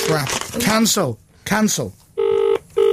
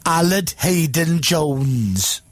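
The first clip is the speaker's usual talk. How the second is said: slow, careful Welsh accent; much slower than usual. Shown as a demonstration. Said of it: "It was the Welsh accent".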